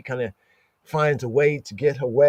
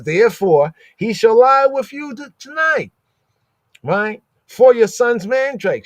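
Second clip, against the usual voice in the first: much higher, louder sly bargaining; high mock Rachel; 9 semitones higher, 6 dB louder than usual. Rachel dealing Jacob away to Leah, high and sly. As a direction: toss off the deal in a high voice.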